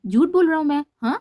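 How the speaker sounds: bristling, indignant retort; stern tone. A narrator's reading. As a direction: throw the accusation back hard. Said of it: "सख्त लहजे में बोला".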